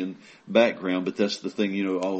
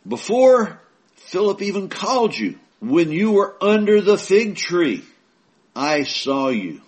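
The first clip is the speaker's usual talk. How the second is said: high, raised voice of Jesus, slowing at I saw you; Jesus speaking; 9 semitones higher, 5 dB louder than usual. Acted. Jesus telling Nathanael he saw him, high and slowing. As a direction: lift it up as Jesus revealing what he saw. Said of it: "Jesus answered and said unto him".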